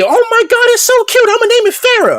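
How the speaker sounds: very high-pitched imitation of Jay's squeal; gushing excitement. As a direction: mimic delighted cooing over a cute pet. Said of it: "they went crazy".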